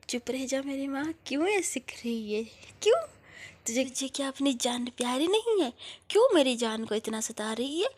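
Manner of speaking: exasperated, loud telling-off; big sister yelling to stop the teasing; loud scolding. Acted. Shreya scolding Swati loudly.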